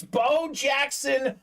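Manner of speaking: slow shouted name; drawn-out hype. Real, not acted. Host announcing the pull, slow shouted name. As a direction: call it out like an announcer. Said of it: "first call of the name".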